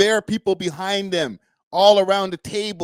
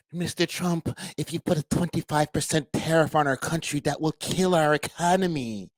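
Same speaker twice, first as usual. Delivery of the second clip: a softer, meek imitation of the prime minister; a hint of a weak politician begging; mocking Trudeau; 4 dB quieter than usual. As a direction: mimic him as timid and pleading. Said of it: "That's exactly how the man sounds".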